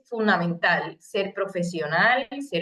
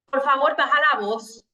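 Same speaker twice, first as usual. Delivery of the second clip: Por favor baja la voz said loud and raised; shouting please; 4 semitones higher, 4 dB louder than usual. Shown as a demonstration. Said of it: "cuando tú le dices".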